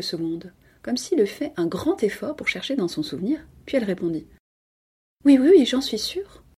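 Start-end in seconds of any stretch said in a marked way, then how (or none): 5.2-6.4 higher, hurried-to-convince insistence; insistent assurance. A narrator's reading. Cousin questioned about her husband's request, insistent. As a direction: insist you are sure, pitched up. Cornered woman insists, lying.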